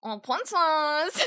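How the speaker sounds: slow, laughing hello; drawn-out laugh on the name; laughing greeting. Real, not acted.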